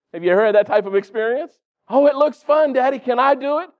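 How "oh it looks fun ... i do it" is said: put-on child begging. Child begging father to mow.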